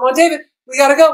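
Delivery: very high, very loud, nervous, urgent tone. Giving feedback by replaying their line, imitating a nervous, urgent higher pitch. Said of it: "you raised your pitch. You went up here and you said ... There's a sense of urgency and it's sort of nervous".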